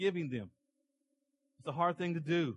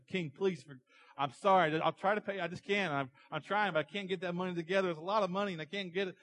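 higher-pitched, apologetic plea; pleading servant; 4 semitones higher than usual. Acted. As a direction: beg for mercy, tripping over excuses. Servant pleads with king for debt.

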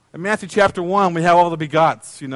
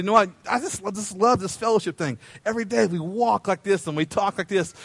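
God speaking to Enoch; 5 dB quieter than usual. Acted. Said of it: "looked at him and said".

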